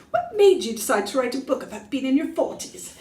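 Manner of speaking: attempted British accent. Shown as a demonstration. Asking herself the tour question in a bad British accent. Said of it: "I should probably say it in a British accent".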